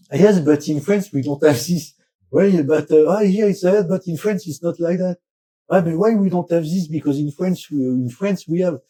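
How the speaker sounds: imitated complaining. French people comparing everything with France, mock complaining. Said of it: "It's complaint".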